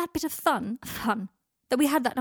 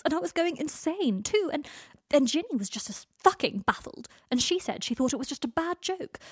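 distraught rant; 6 semitones higher, 4 dB louder than usual. A narrator's reading. Draco pouring out his distress.

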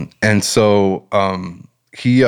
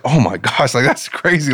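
retold shock; 6 semitones higher than usual. Mailman seeing the healed ankle, retold with mild shock. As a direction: marvel at it, mildly astonished. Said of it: "it, it shocked me".

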